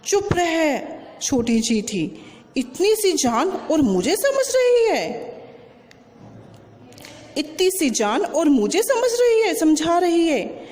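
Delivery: a lightly voiced proud elephant, looking down; arrogant elephant. Bully elephant Motu scoffs at the tiny ant, lightly voiced swagger. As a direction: puff up and sneer at the little ant. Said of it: "मोटू अकड़ कर बोला".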